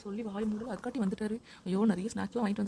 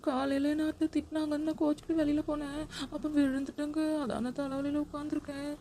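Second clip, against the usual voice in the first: higher, pleading whimper; fake crying; 6 semitones higher than usual. Wife faking tears to husband about mother-in-law, fake crying. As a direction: put on false tears to win him over. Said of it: "என்ன நடிப்புடா சாமி".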